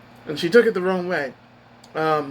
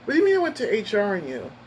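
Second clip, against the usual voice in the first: higher-pitched retold protest; disbelieving challenge; 5 semitones higher than usual. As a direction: question it in disbelief, falling at the end.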